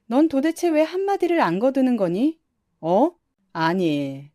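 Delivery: scolding mother-in-law. Acted. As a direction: scold her daughter-in-law sharply.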